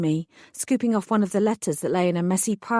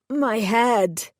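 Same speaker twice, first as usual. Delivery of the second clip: moaning; 3 semitones higher than usual. Acted. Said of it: "he moaned".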